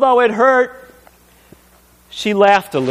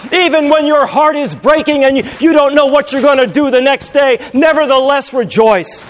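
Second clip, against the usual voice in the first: raised, ringing preacher's plea; fervent exhortation; 6 semitones higher than usual. Acted. Paul urging the church to weep and rejoice, raised and fervent. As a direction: urge them on, higher and stronger.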